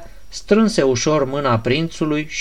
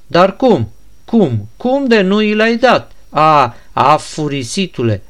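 angry outburst. Acted. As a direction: berate him, pitch climbing on each question. Ganea rages at the prince.

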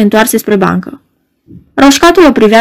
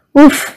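sigh of relief; 4 semitones higher than usual. Acted. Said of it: "de ușurare".

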